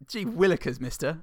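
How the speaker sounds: eager gee-whiz youngster; wholesome 1950s kid. Acted.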